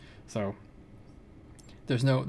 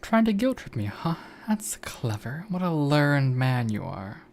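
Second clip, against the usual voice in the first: sarcastic; 3 semitones higher, 4 dB louder than usual. Acted. Voicing Artemy in game.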